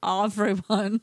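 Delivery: silly Rich Dicks drawn vowels; Rich Dicks accent. Pretend. Host repeats a word she mangled, playful Rich Dicks accent. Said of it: "I just sounded like that right now".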